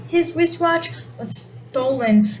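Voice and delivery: "His wristwatch" set apart, slowly; stress on his wristwatch. Shown as a demonstration. Teacher marking the stolen thing as topic, "His wristwatch" stressed. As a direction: lean on "His wristwatch", then "was stolen". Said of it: "emphasizing it was his wristwatch".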